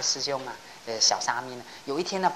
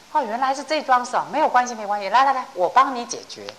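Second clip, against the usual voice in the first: cheerful smile; 8 semitones higher, 4 dB louder than usual. Retold or imitated. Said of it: "一休和尚笑一笑".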